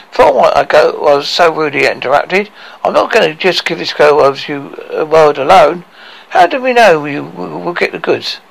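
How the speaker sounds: lightly voiced dwarf driving a bargain; haggling dwarf Tricky.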